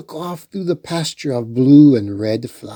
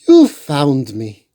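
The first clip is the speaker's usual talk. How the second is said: exclaimed; 5 dB louder, slower than usual. Acted. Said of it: "exclaimed Stella".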